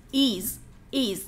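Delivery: is, is as a drawn-out iz ending; đọc tách âm /iz/; the iz sound. Shown as a demonstration. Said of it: "cách đánh phát âm phải là is".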